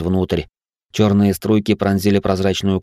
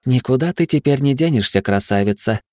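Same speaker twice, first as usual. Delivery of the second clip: breathy vintage purr; 6 semitones higher than usual. Acted. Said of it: "промурлыкала Арахна".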